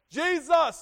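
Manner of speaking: high shouted name, calling out; screaming. Retold or imitated. Blind Bartimaeus crying out to Jesus, loud high shout. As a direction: cry out the name to be heard. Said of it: "and he screamed".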